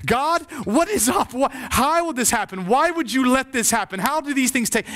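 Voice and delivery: high, pleading questions thrown at God; anguished prayer. Retold or imitated. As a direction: re-enact a grieving pastor demanding answers from God. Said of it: "he would pray prayers like this".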